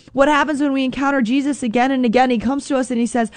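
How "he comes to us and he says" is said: normal talking voice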